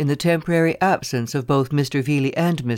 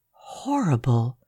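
exclaimed; slower than usual. Acted. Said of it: "I exclaimed".

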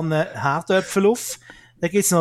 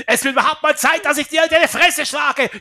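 mock threat; 8 semitones higher, 4 dB louder than usual.

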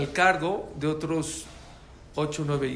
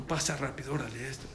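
furtive urging; 6 dB quieter than usual. Retold or imitated. Acted furtive letting in.

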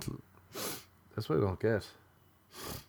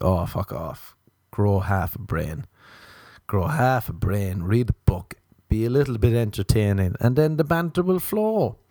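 loud, scornful telling-off; exasperated rant; 6 dB louder than usual. Retold or imitated. Ranting at a girl who texts I'm bored. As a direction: snap back at a lazy texter, fed up.

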